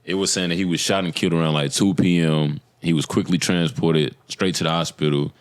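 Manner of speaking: stiff read straight off a phone; real robotic read-aloud delivery. Real, not acted. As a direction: recite it like an unprepared script reading. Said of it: "You sound like a f-, robot".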